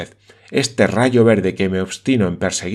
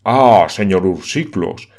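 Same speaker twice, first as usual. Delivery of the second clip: wounded pride; 2 semitones lower, 3 dB louder, slower than usual. Acted. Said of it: "exclamó el hermano Sam, herido en su amor propio".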